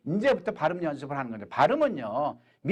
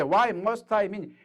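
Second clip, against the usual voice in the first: very slow, word by word; slow teacher model sentence; much slower than usual. Shown as a demonstration. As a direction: drill it slowly. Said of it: "내가 널 왜 만나야 돼?".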